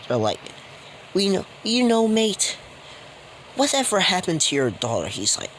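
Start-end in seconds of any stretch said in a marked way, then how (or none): 1.1-5.1 Australian gang member. Retold or imitated. Gang members question Shiro's dad in high menacing voices. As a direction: lean in and press him about the daughter. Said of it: "this game's Australian".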